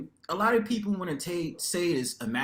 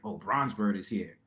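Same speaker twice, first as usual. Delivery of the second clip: mock disdain; 6 semitones lower than usual. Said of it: "the dude scrunched up his face like".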